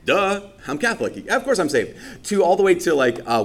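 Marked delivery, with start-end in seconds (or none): 0.0-2.0 mock-breezy certainty, high on course; smug mock reply. A Catholic mocking the easy answer, breezy and smug. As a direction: toss it off like it's obvious.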